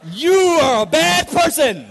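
slow, high, loud mock-furious shout; Christian cussing. Mad driver hurls Christian cuss words, hammed-up anger. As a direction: hammer out a tame insult like a curse. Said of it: "I wanted to use Christian cuss words".

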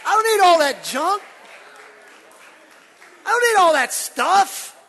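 loud, high, shouted demand; shouted to a neighbour. Acted. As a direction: shout it at the person next to you. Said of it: "look at somebody and give him a high five".

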